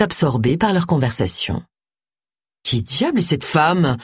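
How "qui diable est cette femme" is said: slow, understated ferocity; slow, mildly fierce question. Acted. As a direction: demand to know, fiercely but contained. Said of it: "demanda Agatha d'un ton féroce".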